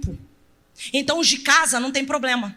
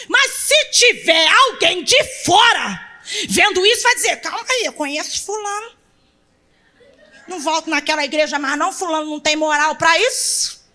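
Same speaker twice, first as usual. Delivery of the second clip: laughing mock outsider; 2 semitones higher, 4 dB louder than usual.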